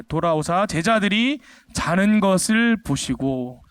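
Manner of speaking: reads the verse slowly and evenly; slow scripture reading. Shown as a demonstration. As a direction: lay out the verse word by word. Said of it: "누가 자는 것을 봤다고 돼 있죠?". (천천히 성경 구절 낭독)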